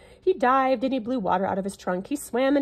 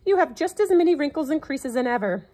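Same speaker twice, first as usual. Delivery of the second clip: screeching parrot; 6 semitones higher, 4 dB louder than usual. A narrator's reading. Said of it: "he screeched".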